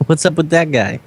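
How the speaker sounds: high, incredulous in-character amusement; amused jeering. Acted. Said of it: "I'm gonna laugh and say".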